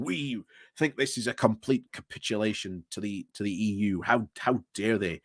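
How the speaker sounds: a light Irish accent, imitating an indignant DUP statement. Mimicking the DUP's imagined statement, light Irish accent. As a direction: slip lightly into Irish as you quote them. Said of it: "why I went Irish there".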